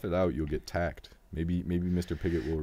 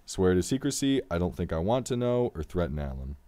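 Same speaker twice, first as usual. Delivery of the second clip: brisk read-aloud of dialogue and options; story narration; 3 dB louder than usual. A narrator's reading. Game host reading the exchange with Alan to the player, story narration. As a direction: read it out clearly, lightly acted.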